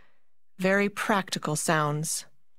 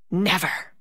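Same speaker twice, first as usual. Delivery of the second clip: mystery voice. Acted. Mysterious voice from her arms.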